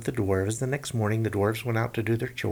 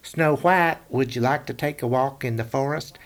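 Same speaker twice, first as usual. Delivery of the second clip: high, louder coaxing hunter; sweet-talking hunter; 4 semitones higher, 5 dB louder than usual. A narrator's reading. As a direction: lure her in sweetly. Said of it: "The hunter said".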